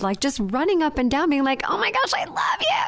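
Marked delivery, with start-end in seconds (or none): 1.7-2.8 very high, fast, whispery mock-child gush; joyful little kid. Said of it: "the joy of a little kid".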